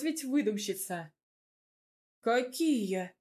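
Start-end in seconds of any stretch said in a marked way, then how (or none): 2.2-3.1 surprised. A narrator's reading. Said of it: "Удивился дедуля".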